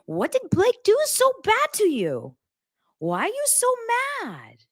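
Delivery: imitating a fretful, high-pitched mom; scared mom. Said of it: "And she goes, "I'm scared".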